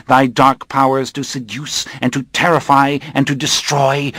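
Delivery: menacing coven leader. Acted. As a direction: pronounce doom on the captive. Coven leader dictates the vow.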